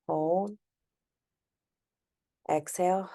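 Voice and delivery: unhurried, gently guided breathwork, long pauses; guided breathing meditation. Acted. Host guiding listeners to inhale, hold and exhale, calm meditation voice.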